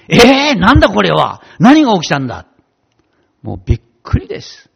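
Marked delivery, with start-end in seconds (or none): 0.1-2.5 amazed. Retold or imitated. Retold amazement at new world.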